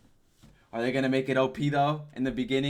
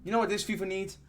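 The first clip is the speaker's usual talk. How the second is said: lightly put-on higher voice; mock an imagined fan, starting high; mock fan quote; 4 semitones higher than usual. Gamer mocking what fans supposedly demand, light mock voice.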